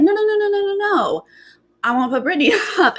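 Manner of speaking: high, hurried string of no's; flustered denial. Retold or imitated. Houseguest frantically denying he'll nominate her, high and hurried. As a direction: brush her off in a panic. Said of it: "And he's like".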